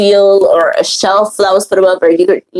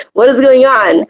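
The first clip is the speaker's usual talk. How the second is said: higher-pitched mock exasperation; annoyed husband; 4 semitones higher than usual. Husband complaining to wife about incense smoke, annoyed. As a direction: imitate an irritated partner demanding an explanation. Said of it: "He gets so annoyed".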